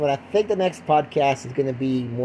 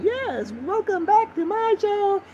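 slow, high mock Eastern European host; drawn-out falsetto with an Eastern European accent; slower than usual. Host welcoming listeners back to his show, Eastern European accent. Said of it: "I sound like I'm some Eastern European country".

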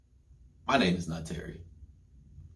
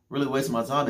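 pitched higher, disbelieving echo; incredulous repeat; 5 semitones higher than usual. Retold or imitated. Repeating it to his girlfriend, higher and incredulous. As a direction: push the disbelief up.

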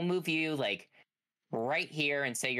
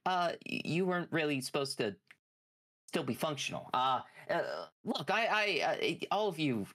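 mad scientist voice. Acted. GM voicing Frankenstein pleading.

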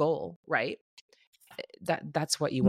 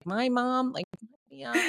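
high mock-teen voice, pitched way up; imitating her daughter; 7 semitones higher, slower than usual. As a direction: lightly play the grown-up daughter in therapy. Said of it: "going like".

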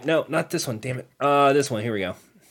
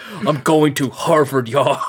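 mock Boston accent; 3 dB louder than usual. Answering whether an actor could do it, mock Boston accent. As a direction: put on a hammed-up Boston accent. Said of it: "could do a Boston accent".

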